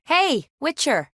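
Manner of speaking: high, drawn-out call; hailing someone. Acted. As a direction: call out slowly to get attention. Hailing the witcher.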